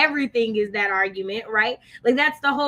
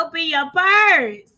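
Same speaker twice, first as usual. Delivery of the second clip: slow, drawn-out church call; a hint of a pastor at collection time; mock preacher; 3 semitones higher, 4 dB louder, slower than usual. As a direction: preach it like an offering plea. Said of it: "I like that".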